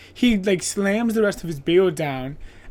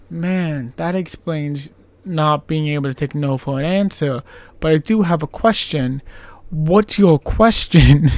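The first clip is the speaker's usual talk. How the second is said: mock puzzled question; 6 dB louder than usual. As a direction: drag out the question like you're baffled. Podcaster voicing own reaction.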